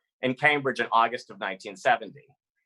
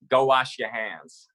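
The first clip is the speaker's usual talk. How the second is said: grandmother's words; 3 dB louder, slower than usual. Retold or imitated. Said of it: "she would always say".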